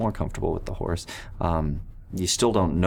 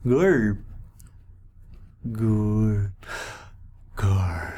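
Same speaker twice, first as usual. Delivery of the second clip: goblin voice; much slower than usual. Acted. Goblin calls its own name.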